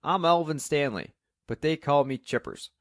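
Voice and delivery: lightly voiced Cockney, high and loud; chirpy Cockney. A narrator's reading. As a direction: greet with a touch of chirpy Cockney. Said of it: "with a chirpy Cockney accent".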